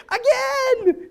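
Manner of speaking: high, loud, laughing demand; excited little girl. Retold or imitated. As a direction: shout it gleefully like a child. Girl wants another round.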